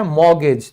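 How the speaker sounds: मॉर्गेज with no t; silent t in mortgage. Shown as a demonstration. Teacher demonstrates mortgage with t silent. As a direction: say मॉर्गेज, drop the t. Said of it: "मॉर्टगेज नहीं होगा".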